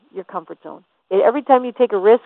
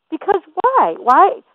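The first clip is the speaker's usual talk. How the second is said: high emphatic why; 10 semitones higher, slower than usual. Real, not acted. Rhetorical challenge to objector.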